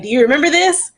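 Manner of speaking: lightly voiced cousin asking, pitch lifted; a bright mock-curious ask; retold question. Cousin sending the old cake photo: mild mock question. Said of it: "she's like".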